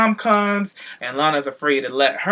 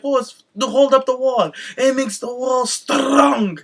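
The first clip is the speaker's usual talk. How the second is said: imitating Rusev; 9 semitones higher, slower than usual. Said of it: "he's like".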